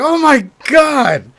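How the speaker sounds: high, loud panicked cry, slow at first; scared kid begging mom to go home; terrified. Retold or imitated. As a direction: shriek it out in total fright. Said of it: "I'm like".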